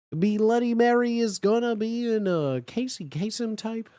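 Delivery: usual speaking voice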